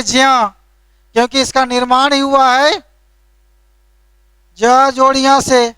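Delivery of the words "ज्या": ज्या said "jya", j gliding into ya; correct pronunciation. Shown as a demonstration. Teacher explaining the letter's true sound, careful j-ya in ज्या. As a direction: join j and ya in ज्या. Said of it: "इसका सही उच्चारण है".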